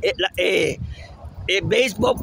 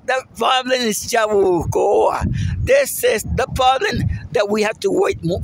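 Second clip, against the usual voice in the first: angry shouting; 3 semitones higher than usual. Real, not acted. Vlogger blasting local officials to his viewers, angry shout. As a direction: shout the blame at the town. Angry rant about Yabucoa repairs.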